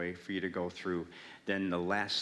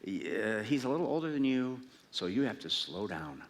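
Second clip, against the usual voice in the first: gently tactful, imitated; lightly imitated kindly advice; retold sweetness; 3 semitones higher than usual. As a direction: break it to them sweetly. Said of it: "kind of sweetly".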